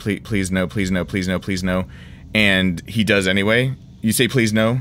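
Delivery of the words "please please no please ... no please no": imploring, pleading voice, repeated over and over. Describing the dread when Mr. Grabby Hands takes hold, acting out mock begging. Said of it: "you're sitting there going, like".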